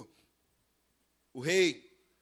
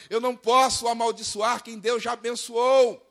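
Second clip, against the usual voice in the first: higher, emphatic quoted refusal; quoted sorcerer's proclamation; 5 semitones higher, 4 dB louder than usual. Acted. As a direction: proclaim the sorcerer's words with preacher's force. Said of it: "olha o macumbeiro falando".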